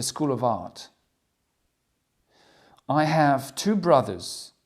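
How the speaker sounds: loud, slow, deliberate self-introduction; character introduction. Acted. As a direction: present yourself slowly as a student. Teacher reads character sheet as Lucy. (Lucy se présente lentement, fort et posé)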